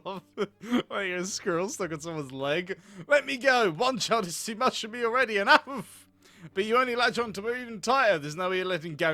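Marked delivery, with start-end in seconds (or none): 3.1-6.1 loud, raised protest; exasperated outburst. Acted. Mother shaking off her clinging child, exasperated outburst. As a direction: snap to get free.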